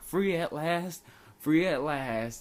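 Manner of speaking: hammed-up victory cry; mock-triumphant. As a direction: announce your freedom in long drawn-out words. Acts out triumphant return to class.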